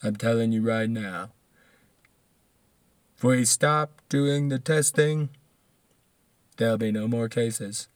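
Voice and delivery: half-hearted mimicry, stretching out the phrases; Trump. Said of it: "how can I get back to the Trump".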